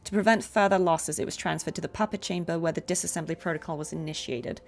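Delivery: steady machine-like readout; robot voice. Shown as a demonstration. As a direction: read it like a robot log. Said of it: "Robot Cardi".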